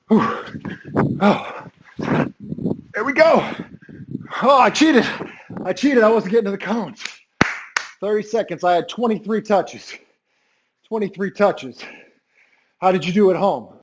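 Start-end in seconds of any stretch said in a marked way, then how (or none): 0.1-11.8 panting after the drill; winded, gasping between words; out of breath. Real, not acted. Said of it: "catch my breath".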